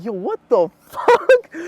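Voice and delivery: loud, high, slow shocked yell with a laugh; stunned disbelief. Retold or imitated. He shouts at the girl who ran off, in disbelief. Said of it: "I was so confused".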